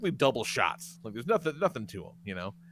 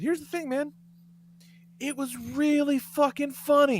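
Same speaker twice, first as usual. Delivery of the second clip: mock sincere; 12 semitones higher than usual. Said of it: "and I said".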